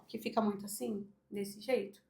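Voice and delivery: demonstrating a small, sunken voice. Shown as a demonstration. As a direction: let the voice sink into a hunched chest. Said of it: "a voz sai mais baixa".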